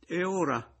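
high, plaintive moan. A narrator's reading. Cornered new husband wonders what next, plaintive moan. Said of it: "gemette Pomino".

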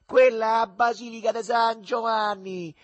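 loud, high mock tour-guide call; didactic yelling. A narrator's reading. Boy pointing out Rome to a bumpkin, didactic yell. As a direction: shout the landmark out instructively. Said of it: "urlando con aria didascalica".

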